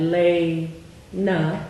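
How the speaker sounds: "lay", "na" slowly with a pause between; slow syllable split. Shown as a demonstration. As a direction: stretch out "lay" then "na". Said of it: "I would have that first sound".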